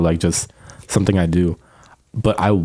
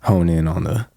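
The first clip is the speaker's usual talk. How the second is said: deep voice; 2 semitones lower than usual. Shown as a demonstration. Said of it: "I'm gonna make my voice, like, way deeper".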